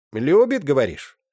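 mock her daughter's hope; mother Agna jeering at her daughter, high and loud. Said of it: "с издёвкой переспросила Агна".

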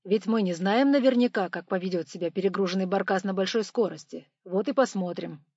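lecturing. Acted. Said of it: "как будто преподаватель читает лекцию".

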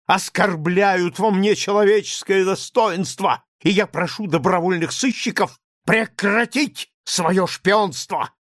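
high, loud, near-hysterical shout. A narrator's reading. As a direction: scream it out, shaking with nerves. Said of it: "продолжал Лаевский". (кричит в истерике, высоко и громко)

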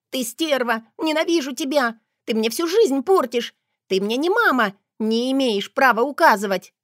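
high, loud, whiny outburst; high loud tearful tantrum; tearful wailing. A narrator's reading. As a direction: wail it at her, crying. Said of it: "плаксиво заголосила Света".

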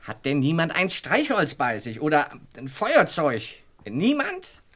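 anxious loud call into the darkness; calling out in the dark. Acted. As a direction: shout to the room for a light.

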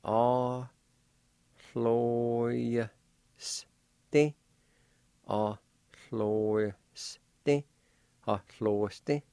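"Ah, hloyste" with breathy "hl" at the start; patient repetition of "Ah, hloyste"; teacher demo. Shown as a demonstration. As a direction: model "Ah, hloyste" again and again. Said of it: "like this".

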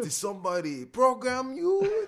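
high-pitched words breaking into laughter; laughing. Real, not acted. Friend cracking up retelling the comedian's robot bit, laughing. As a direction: squeak it out while cracking up.

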